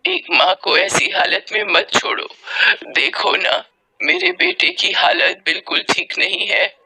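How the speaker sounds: desperate mother's drawn-out plea; acted, anguished appeal; pleading for help. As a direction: beg passers-by, breathy and slow at first. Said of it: "मदद की गुहार करती".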